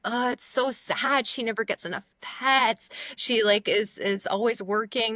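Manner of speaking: imitated sad fussing; pitying onlooker. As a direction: coo with exaggerated pity for the dog. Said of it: "people are always like".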